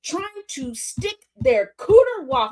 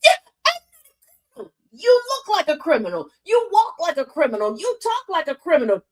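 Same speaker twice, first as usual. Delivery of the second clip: mock sing-song taunt; 5 semitones higher than usual. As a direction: taunt with rhythm. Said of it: "And she's like".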